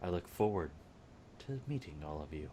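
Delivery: hushed, low, carrying near-half-whisper stage whisper. Speaker retells a man leaning forward to address a room, retelling an almost-half-whisper. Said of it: "you hear him almost whisper".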